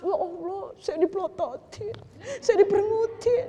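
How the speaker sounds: high, whiny mock complaint; a hint of mock crying; mock whining. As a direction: play a touchy woman whining to God. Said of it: "langsung nangis".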